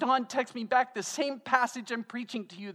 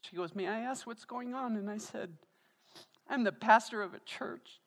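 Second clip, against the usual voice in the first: raised, choked-up voice holding back tears; tearful; 4 semitones higher than usual. Real, not acted. Pastor to his church, retelling the coffee shop, tearful. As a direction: push through the story while close to tears. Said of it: "like it is right now for me".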